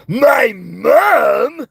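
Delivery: loud high shout; Muscle Man catchphrase. Acted. Doing Muscle Man's my mom joke for chat, loud. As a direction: yell the punchline. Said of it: "Muscle Man".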